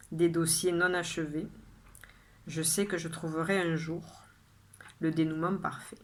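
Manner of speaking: measured poem reading, phrase by phrase with pauses; poem recitation. Acted. Poet shares today's poem with viewers, measured recitation. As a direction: recite your poem clearly, letting each line settle. Reads own poem aloud.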